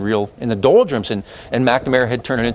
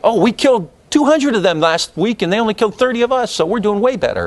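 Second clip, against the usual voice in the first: mock McNamara boast; 9 semitones higher than usual. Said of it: "This is kind of how McNamara sees it".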